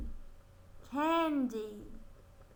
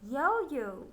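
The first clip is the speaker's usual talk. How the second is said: ordinary delivery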